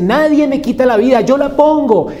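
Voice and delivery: loud, high, triumphant "Nadie me quita la vida"; loud proclamation. Acted. (proclamación triunfal y fuerte)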